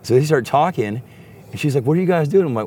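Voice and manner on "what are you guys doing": high-pitched imitation of a woman asking; lightly mimicked bartender, pitched up and louder; imitated bartender. Bartender asks the two buddies, high imitated voice. Voicing the bartender in his story.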